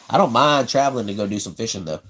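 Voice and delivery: ordinary talk, nothing marked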